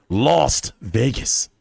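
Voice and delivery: Lost Vegas said slowly, Lost stretched; slow punning Lost Vegas; wordplay on Vegas. Shown as a demonstration. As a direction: drawl out Lost Vegas as a pun. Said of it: "Las Vegas tapes".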